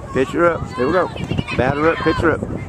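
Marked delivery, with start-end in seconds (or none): 2.4-2.6 excited yelling. Real, not acted. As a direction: scream the runner home. Cheering a home run.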